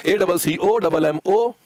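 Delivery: slow letter-by-letter dictation; spelling out. Real, not acted. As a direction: spell it slowly, stretching the last letter. Spells word for students writing. (अक्षर-अक्षर धीरे बोलकर लिखवाना)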